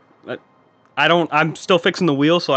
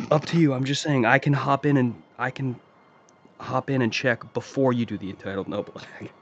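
secret message; 6 dB quieter than usual. Pretend. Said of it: "I'll do another message real quick".

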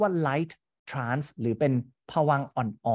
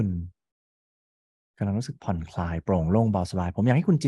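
guided meditation; 4 semitones lower than usual. Acted. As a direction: lead them into the movie calmly. Guided imagery hypnosis session.

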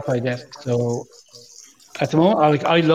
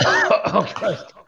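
coughing then laughing it off; spluttering after choking; swallowed wrong way; 4 semitones higher, slower than usual. Real, not acted. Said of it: "The Caramello went down the wrong way".

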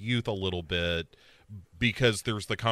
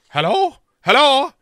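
much higher, louder hellos into a dead line; insistent phone hello; 14 semitones higher, 10 dB louder than usual. Retold or imitated. Sarah answering a silent phone call, high insistent hello.

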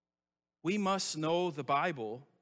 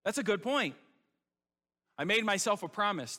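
mock gullible agreement, pitched up; naively convinced; 5 semitones higher than usual. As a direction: believer fooled by Satan, naive surprised voice. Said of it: "And you say".

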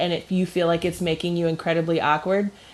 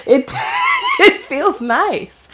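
slow, higher words squeezed through laughter; laughing; 12 semitones higher, 3 dB louder, slower than usual. Real, not acted. Friend topping the mustache joke, laughing. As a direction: crack up while drawing out the punchline.

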